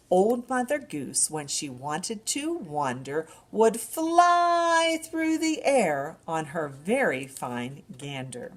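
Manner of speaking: sing-song rhyme for babies; nursery rhyme recital. Acted. Librarian reciting a rhyme to babies, sing-song. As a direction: recite it brightly to a baby.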